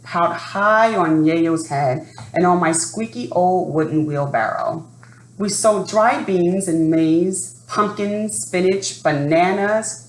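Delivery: lively read-aloud storytelling voice; story narration. A narrator's reading. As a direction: read it like a children's picture book. Reading a picture book aloud.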